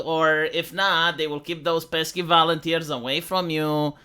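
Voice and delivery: mock Hispanic accent. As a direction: lay on a fake Hispanic accent, stretching the phrases. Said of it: "she sees a Hispanic".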